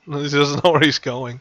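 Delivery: ordinary delivery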